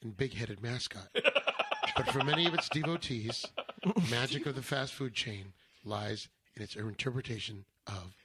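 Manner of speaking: deadpan NPR narration; NPR style. Acted. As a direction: read it like a serious radio essay. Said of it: "N P R style?".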